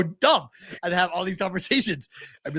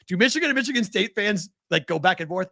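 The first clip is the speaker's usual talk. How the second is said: retold challenge; 5 semitones higher than usual. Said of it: "It'd be like".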